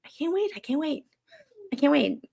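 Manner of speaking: high, eager repeated squeal of "I can't wait"; excited. Real, not acted. Repeats excitedly about becoming aunt.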